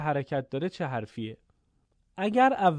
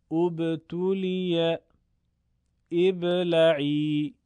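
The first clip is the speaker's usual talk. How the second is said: Quranic recitation practice. Shown as a demonstration. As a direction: recite each word measured and sustained, for pupils to practise. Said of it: "چند مثال برای تمرین".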